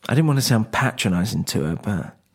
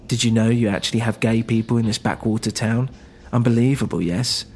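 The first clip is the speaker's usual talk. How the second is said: put-on spirited woman with a light Eastern European accent. The speaker mocking the backwater town, Eastern European accent.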